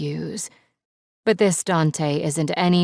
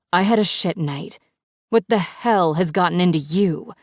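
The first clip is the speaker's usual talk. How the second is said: louder, exasperated shout back; angry retort; 2 semitones higher, 5 dB louder than usual. Acted. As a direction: throw the question back at him. Heated phone quarrel.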